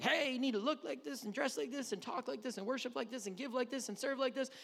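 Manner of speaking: hammed-up bossy welcome; mock pushy churchgoer. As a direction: rattle off rules at a newcomer. Churchgoers piling demands on a newcomer.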